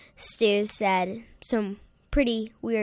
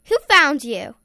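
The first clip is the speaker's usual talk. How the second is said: louder, higher, incredulous asking; acted astonished question; 5 semitones higher, 9 dB louder than usual. Captive asks the frightened troll who came, astonished. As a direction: demand it in mock surprise. Narrator acts own puzzled question.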